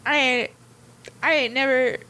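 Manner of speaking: lightly put-on southern accent; half-committed southern accent; southern accent attempt. Shown as a demonstration. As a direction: read it with a modest country twang. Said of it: "I need to read one".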